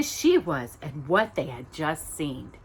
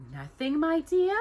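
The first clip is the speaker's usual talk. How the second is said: mellifluous voice; 9 semitones higher than usual. Acted. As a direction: coax her gently. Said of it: "a mellifluous voice asked".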